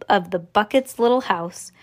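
usual speaking voice

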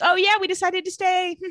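high, sing-song casual reply; breezy imitation. Anna tells Jeremy about staying, high and breezy.

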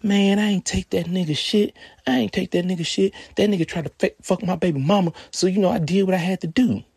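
high, loud, defensive denial; Darius's voice. Retold or imitated. Darius answering the narrator's message, high and defensive. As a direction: pitch up and justify it loudly. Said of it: "He's like".

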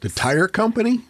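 high incredulous question; mock surprise. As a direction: act puzzled, pitch shooting up.

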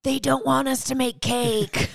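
high-pitched comic indignation; hammed-up protest, pitched high; mock outrage. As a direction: cry conspiracy in mock outrage. Mock outrage over cake conspiracy.

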